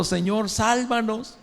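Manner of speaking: súplica aguda y lenta, sin volumen; grito de auxilio retold. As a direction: imitar suave un grito de auxilio. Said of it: "estaban gritando". (los discípulos en la tormenta, un ruego agudo y lento)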